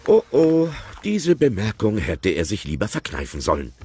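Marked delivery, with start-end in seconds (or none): none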